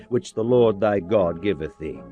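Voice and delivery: plain reading voice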